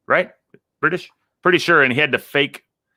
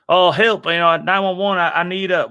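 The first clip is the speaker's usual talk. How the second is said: panicked caller; 6 semitones higher than usual. Retold or imitated. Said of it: "he goes".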